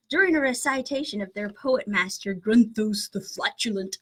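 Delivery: amateur British narrator reading aloud; British accent. Acted. Host reading the book's poetry joke, British accent. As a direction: put on a British accent for a mock-grand reading. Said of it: "horrible British accent".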